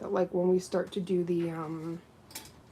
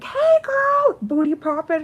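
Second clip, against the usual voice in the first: put-on very high, loud squeal of hey girl; hype greeting; 15 dB louder, slower than usual. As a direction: greet her like your best friend. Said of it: "So she'll be like".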